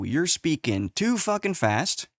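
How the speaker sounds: acted complaint. Fax machine voiced as complaining.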